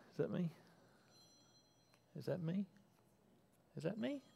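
half-whispered puzzlement at a faint call; hushed wondering. Acted. Boy Samuel hears his name, hushed and puzzled.

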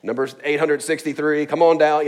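mock announcer calling a number; a hint of a loud host; game show caller. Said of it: "like the B M V person".

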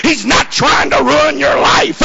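driving sermon delivery, building in pitch; fervent preaching. Real, not acted. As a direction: preach it in relentless, punched phrases. Preacher builds to full force.

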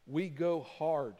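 slow, deliberate public prayer; confessing to God in measured phrases; spoken prayer. Acted. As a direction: pray aloud, spacing out the phrases. Leads a closing prayer.

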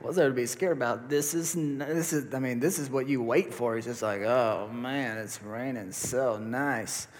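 dreamy. Retold or imitated. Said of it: "I was like".

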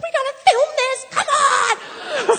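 high, loud and laughing; excited urging. Retold or imitated. Her friend on the phone, urging her on in high excitement. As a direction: rush her along, thrilled. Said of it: "She's like".

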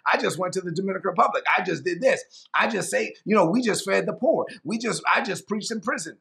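lightly acted bragging with a fanfare; mock boasting. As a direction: imitate people showing off their good deeds. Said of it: "So that no one can boast".

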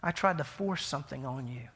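soft, subdued, mildly tearful apology; gently retold remorse, low and quiet. Weeping friend apologizes for forcing something, imitated as softly tearful. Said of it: "He was just crying".

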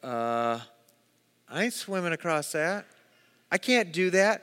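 daunted reluctance. Acted. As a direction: balk softly at the task. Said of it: "be like".

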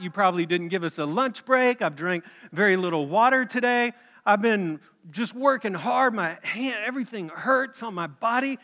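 indignant complaint. Acted. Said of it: "He says, grumbling workers complain".

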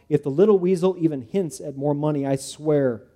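seething threat. Acted. Judah storming past his daughter, seething. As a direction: growl the threat through a clenched jaw. Angry father heading to door.

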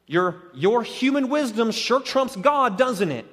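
sarcastic, snarky. Acted. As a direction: needle them with snarky, feigned admiration. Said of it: "very sort of sarcastic, snarky tone".

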